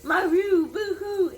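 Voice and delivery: high, loud yowling maroo; hissing cat. Acted. Woken cat hissing back, loud yowl.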